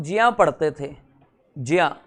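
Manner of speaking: जिया said as jiya, the way elders read it; old-fashioned pronunciation. Shown as a demonstration. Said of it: "बुजुर्ग यानी कि पुराने ज़माने के लोग इसको जिया पढ़ा करते थे".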